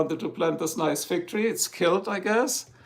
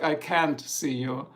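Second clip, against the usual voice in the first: American "can't"; slower than usual. Shown as a demonstration. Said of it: "In American, it's like".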